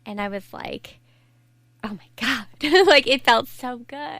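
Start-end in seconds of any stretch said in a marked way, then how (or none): 1.8-4.2 laughing relief. Real, not acted. Telling the host about her first shower, laughing relief. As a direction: relive the bliss of that shower with a laugh.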